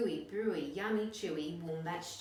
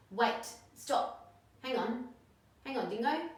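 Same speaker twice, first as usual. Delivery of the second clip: higher, louder urgent stop; urgent plea; 6 semitones higher, 5 dB louder than usual. Acted. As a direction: rush to stop him. Animals rush to stop Dingo.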